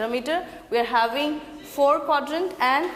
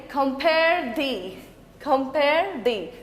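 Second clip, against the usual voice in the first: "compare thee" drawn out slowly as a metrical unit, then repeated; slow scansion; much slower than usual. Shown as a demonstration. Teacher demonstrating stressed and unstressed, "compare thee" said slowly. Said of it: "That means stressed, unstressed".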